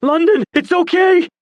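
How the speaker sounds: very high, loud call. Acted. Dawson calls to London across the road, loud. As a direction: call her name across the street.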